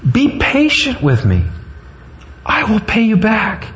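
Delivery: high-pitched plea; acted begging at speaking volume. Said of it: "fell to his knees and begged him".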